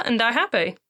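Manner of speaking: lightly voiced mum, wry and fast; joking mum. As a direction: joke about dying with a grin.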